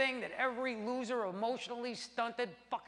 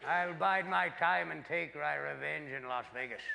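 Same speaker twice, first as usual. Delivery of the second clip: a hint of a lower, brooding villain; mock villain vow; 5 semitones lower than usual. The vengeful penis plotting revenge, mock villain. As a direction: growl out a cartoon revenge vow.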